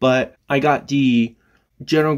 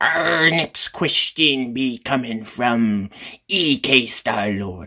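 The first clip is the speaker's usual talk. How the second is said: bad pirate voice, spoken very slowly. Announcing who the next question comes from, in a terrible pirate impression. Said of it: "That's the terrible pirate impression".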